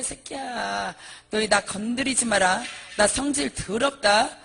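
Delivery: acted thug boasting and warning; defiant, swaggering mock threat; gangster bravado. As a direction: brag and threaten like a gangster monk. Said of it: "완전히 깡패".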